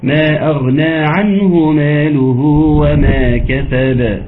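slow drawn-out tajweed chant; Quran recitation. Shown as a demonstration. Teacher reciting Sura Maryam to students, slow chanted recitation. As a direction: recite slowly, stretching the vowels. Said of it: "الباء الثانية المفروض تكون غير".

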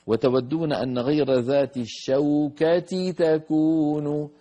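ترتيل متأنٍّ بتجويد; يتلو الآية ببطء ووضوح كمثال; تلاوة مجوّدة. Shown as a demonstration. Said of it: "في الآية سبعة". (تلاوة تعليمية متأنية)

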